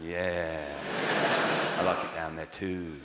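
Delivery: Lidl fan voice. Retold or imitated. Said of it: "a few brethren out there going".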